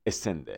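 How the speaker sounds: "ascend" as e-SEND, American style; American pronunciation. Shown as a demonstration. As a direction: say "ascend" with a weak first vowel. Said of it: "تلفظ درست امریکایی این". (تلفظ آمریکایی "ascend" با «اِ» کوتاه)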